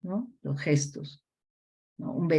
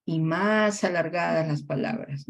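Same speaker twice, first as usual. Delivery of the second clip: slow with pauses; slower than usual. Shown as a demonstration. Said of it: "hablarles a veces despacio".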